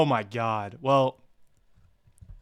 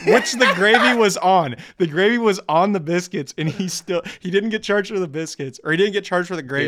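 laughing disbelief; 6 semitones higher, 3 dB louder than usual. Real, not acted. Laughing at the gravy story.

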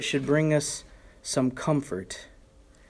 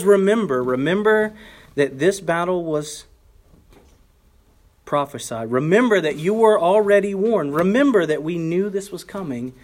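urgent reminder; 2 semitones higher than usual. Retold or imitated. Preacher urging repeated remember.

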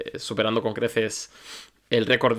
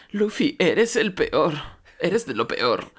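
slow, drawn-out mock taunt; put-on slow sarcasm; mocking retort; 6 semitones higher, slower than usual. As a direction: imitate a teasing jab, taking it slowly. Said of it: "un poco de sorna".

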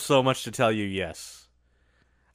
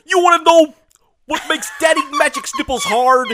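catchphrase voice; 7 dB louder than usual. Retold or imitated. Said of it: "That's his catchphrase".

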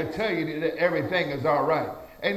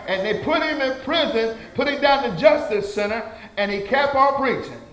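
raised, emphatic pulpit delivery; rousing sermon cadence; fervent preaching; 7 semitones higher than usual. Real, not acted. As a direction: exhort the congregation with rising energy.

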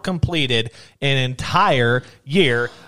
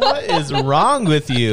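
laughing; 3 dB louder, slower than usual. Real, not acted. Reacting to giggle fit.

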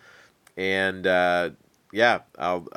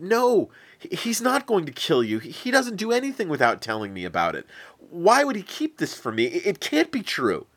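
put-on a higher, stammering young prince in denial; disbelieving Jonathan; 8 semitones higher than usual. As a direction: refuse to believe it, tripping over words.

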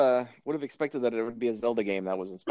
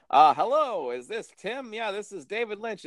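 David Lynch impression; 8 semitones higher than usual. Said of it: "what if he would call, like".

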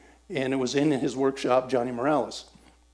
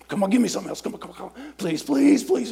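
higher, urgent begging; pleading; 9 semitones higher, faster than usual. Retold or imitated. Begging God under time pressure.

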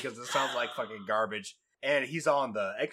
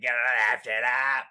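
mock JFK accent; 3 semitones lower than usual. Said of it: "it's like J F K".

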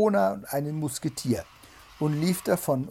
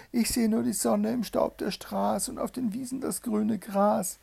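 sister calling back; 9 semitones higher than usual. A narrator's reading. Sister answers from the tower.

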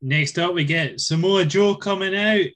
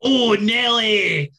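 Regal catchphrase drawl; 4 semitones higher, 4 dB louder, much slower than usual. Retold or imitated.

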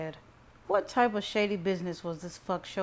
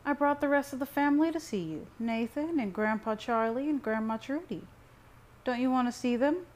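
higher-pitched mother's voice; coaxing mother; 7 semitones higher, 3 dB louder than usual. A narrator's reading. Mother presents the waiting family to son, coaxing. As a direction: coax him in a high, lilting voice.

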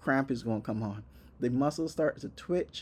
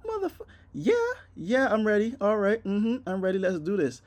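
high, pained and a bit louder; strained mock whimper; 7 semitones higher, 4 dB louder than usual. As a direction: fake being ready while dying inside. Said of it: "And I'm like".

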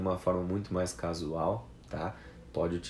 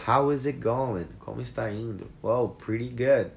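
higher, louder, upbeat question and answer; cheery exchange; 4 semitones higher, 5 dB louder than usual. Shown as a demonstration. Teacher acts out a casual greeting and cheerful answer. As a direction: answer brightly like a pleased friend.

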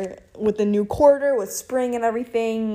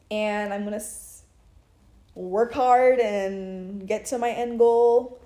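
slurred, sluggish speech; sounding foggy and tipsy. Real, not acted. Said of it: "I sound like, like I'm drunk".

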